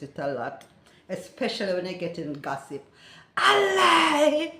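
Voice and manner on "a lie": high, loud Jamaican disbelief; shocked exclamation. Shown as a demonstration. Reacting to gossip, loud shocked patois. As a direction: cry out "A lie!" in shocked disbelief. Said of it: "this is usually an expression".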